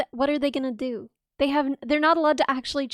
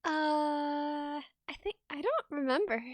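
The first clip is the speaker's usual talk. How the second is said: sheepish mumble; 9 dB quieter, slower than usual. Real, not acted. Embarrassed, backing off.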